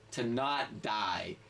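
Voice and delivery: slow, flat-out deadpan answer. Retold or imitated. Ride operator deadpanning his life goal to a drunk guest. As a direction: say it like it's obvious.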